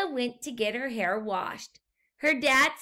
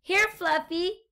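higher call for the pet; 7 semitones higher, 3 dB louder than usual. A narrator's reading. Dad calls for the lost guinea pig. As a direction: call out to find Fluffy. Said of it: "called Emma's dad".

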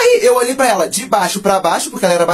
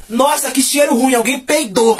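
higher, drawn-out complaining classmate; imitated nerd; 4 semitones higher, slower than usual. Nerd at the front complains of a smell, imitated. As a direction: mimic the nerd announcing a bad smell. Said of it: "a nerd lá da frente falou assim".

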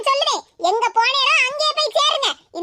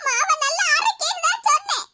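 fake tearful; 3 semitones higher than usual. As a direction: sob out an innocent excuse. Caught muttering, covers with tears. (அழுகையுடன் சமாளிப்பு)

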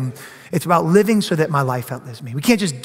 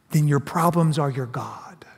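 low, soft, whispered punchline; hushed, weighty sermon line; whispered point; 4 semitones lower, 5 dB quieter than usual. Real, not acted. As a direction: whisper it so they lean in. Pastor whispers the key line.

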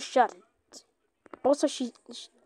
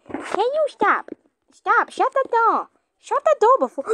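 frantic shout; 9 semitones higher than usual. Real, not acted. Panicked at game.

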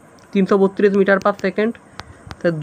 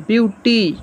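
mildly raised demonstration shout; mock calling out; 3 semitones higher, much slower than usual. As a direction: call it out in two split syllables, BIU-TI. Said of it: "এ চেঁচাচ্ছে".

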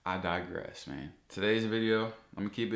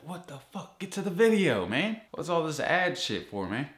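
angry yell; 6 semitones higher than usual. Real, not acted. Vlogger yelling at ads to get to the video, angry shout. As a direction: demand the video now.

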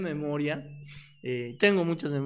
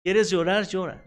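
urging mother; 6 dB louder than usual. Retold or imitated. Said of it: "Y me dice".

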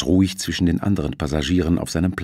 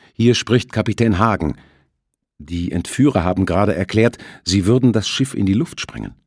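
urgent report; 3 semitones higher, 4 dB louder than usual. Acted. Captain reports by radio.

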